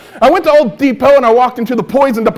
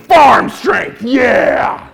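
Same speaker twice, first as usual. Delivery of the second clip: mock excited shout; 2 semitones higher, much slower than usual. Seeing the poison fizz, giving a gleeful mock cheer. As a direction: cheer it like a fan.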